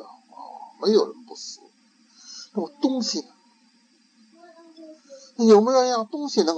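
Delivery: put-on high, bright boyish questioning; child's voice. Ikkyu leading his master on, in a high child voice. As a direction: play a clever little monk.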